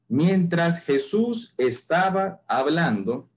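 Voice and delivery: slow, deliberate reading, dwelling on "Jesús"; reading slowly. Shown as a demonstration. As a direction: read the verse word by word, unhurried. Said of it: "Lo vamos a leer despacio".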